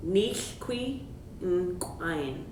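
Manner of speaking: "Nichqui in crying" very slow, each word spelled out; slow S'Klallam phrase. Shown as a demonstration. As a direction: drill "Nichqui in crying" slowly. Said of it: "get that Q sound to pop".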